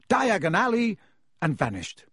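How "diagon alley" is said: higher and louder, called into the fire; shouted. A narrator's reading. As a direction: call out the place name boldly.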